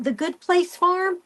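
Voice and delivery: asking herself if she has the name right; unsure question. Real, not acted. Trying to recall a farm name, unsure rising question. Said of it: "I think it's called The Good Place Farm".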